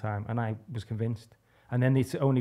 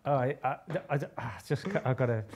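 flustered stammer; 3 semitones higher than usual. Retold or imitated. Acting out his flustered, caught-out reply.

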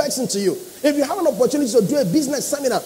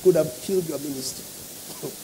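teasing friend quote; 6 semitones lower than usual. Retold or imitated. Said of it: "We are making fun".

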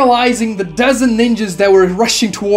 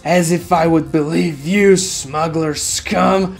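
scoffing captain. A narrator's reading. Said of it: "The captain scoffs and says".

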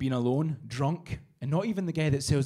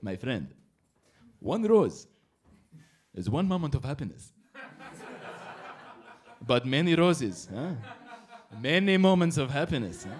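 sly salesman; 3 semitones lower than usual. Retold or imitated. Rose seller's sales pitch.

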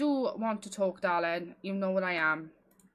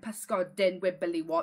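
put-on North Wales accent; 3 semitones lower than usual. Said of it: "a North Wales kind of person, like, they emphasise everything more".

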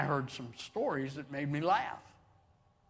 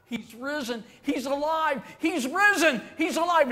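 giggling excitement; 9 semitones higher, 5 dB louder than usual. Acted. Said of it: "kind of giggling among themselves".

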